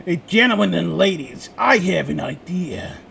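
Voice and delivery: lightly voiced self-important boss; pompous director voice. Director addressing the writers' room, lightly pompous. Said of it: "He stood up and said".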